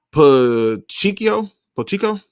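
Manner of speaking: Pacheco sounded out slowly as puh-CHEE-ko; unsure mispronunciation. Real, not acted. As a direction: grope through Pacheco with CHEE in the middle. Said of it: "I suck with names".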